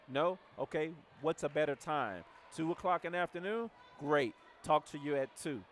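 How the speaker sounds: just tell them, no asking; confident direct tone. Shown as a demonstration. Coach demonstrating a confident invite to a prospect, loud and sure. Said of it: "That is my tone".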